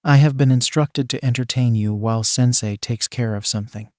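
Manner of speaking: forced calm through clenched teeth; calm but strained, teeth gritted. Acted. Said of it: "in a very calm voice".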